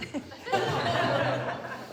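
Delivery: real high peal of laughter. Real, not acted. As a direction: crack up at your own slip. Laughing at her own slip.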